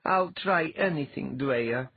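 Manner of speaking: eager and pleading, all in; fervent. A narrator's reading. Latha begging Dwyer to free her mind, fervent. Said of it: "Latha said fervently".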